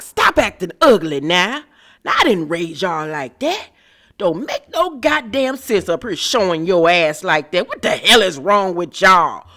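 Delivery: lightly voiced elder scolding the girls; scolding church elder. Miss Dorothy telling off the brawling girls, lightly voiced scolding. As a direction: cuss them out like a fed-up grandmother. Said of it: "That's what Miss Dorothy wanted to say".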